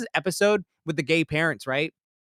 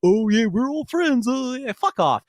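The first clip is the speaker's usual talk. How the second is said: higher, louder, slow sarcastic voice; mock fake friendliness; 8 semitones higher, 4 dB louder, slower than usual. Mocking the friends at the episode's end, sarcastic. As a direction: sneer through fake cheer. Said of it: "they're just like".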